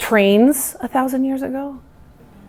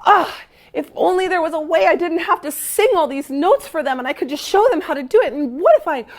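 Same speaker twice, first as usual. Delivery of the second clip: mild sad; 6 semitones higher than usual. Retold or imitated. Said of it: "how sad he was".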